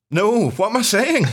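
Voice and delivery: laughing at himself; laughing mid-sentence. Real, not acted. Laughing at own slip.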